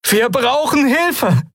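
high, drawn-out desperate call; crying for help. A narrator's reading. Kai summoning help for the lifeless admiral, crying out. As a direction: call desperately, stretching the words. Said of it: "rief Kai".

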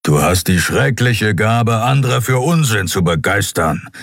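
disapproving. Acted. Skrier scolding the captain's gift for nonsense, disapproving. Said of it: "schnaubte missbilligend".

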